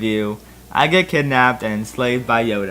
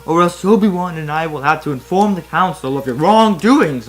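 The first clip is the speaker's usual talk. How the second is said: mock scream; 4 semitones higher, 5 dB louder than usual. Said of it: "Mace Windu screamed".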